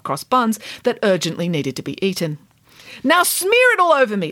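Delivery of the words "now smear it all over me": loud, high bossy order; commanding. Acted. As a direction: boss them around. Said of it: "ordered Nanny Piggins".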